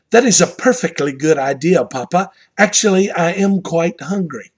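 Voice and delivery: imitating a little Australian grandson through a Southern accent; attempted Australian accent. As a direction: have a go at an Aussie accent, Southern showing through. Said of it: "a Australian, uh, sound in spite of my Southern accent".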